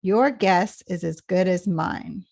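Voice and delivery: YOUR GUESS stressed, pitch dropping through MINE; falling intonation. Shown as a demonstration. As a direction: start firmly on YOUR GUESS and descend to MINE. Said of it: "intonation goes down at the end".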